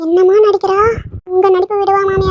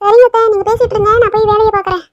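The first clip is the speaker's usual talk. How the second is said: higher, sugary dutiful reply; fake sweet obedience; 4 semitones higher than usual. Daughter-in-law fakes sweetness to her mother-in-law for show. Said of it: "நம்மளும் அந்த பிட்டையே follow பண்ணிடுவோம்".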